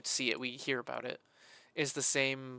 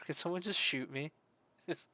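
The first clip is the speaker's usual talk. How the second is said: laughing. Real, not acted. Laughing despair joke.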